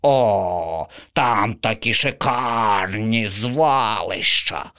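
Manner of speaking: slow, savouring crow; blissful crow. Acted. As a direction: relish the thought.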